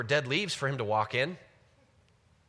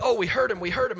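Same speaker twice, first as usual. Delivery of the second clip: panicked whisper-shout; 9 semitones higher, 12 dB louder, faster than usual. Retold or imitated. Adam and Eve panicking, hiding.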